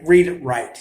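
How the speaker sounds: "Read it right" in a New York Italian accent, "read" hit loud. Real, not acted. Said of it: "Saying this with the New York Italian accent".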